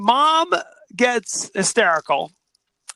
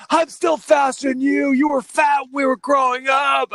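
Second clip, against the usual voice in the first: higher-pitched brotherly squabble; hammed-up petty argument; mock bickering; 4 semitones higher than usual. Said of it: "two brothers were arguing".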